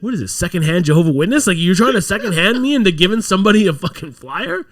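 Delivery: hammed-up refusal, building in exasperation; mock indignant rant. Tourist refuses missionaries' flyer errand, mock indignation.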